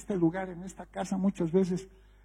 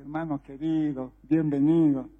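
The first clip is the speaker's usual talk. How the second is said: retold gentle welcome; 4 semitones lower than usual. Pastor approaching the drunk son in the hall, gentle welcome. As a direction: welcome him tenderly, keeping it low.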